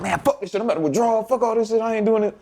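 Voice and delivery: acted-out frustration without extra volume; retold fed-up quitting. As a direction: throw in the towel, pitch lifted. Acting out his decision to quit.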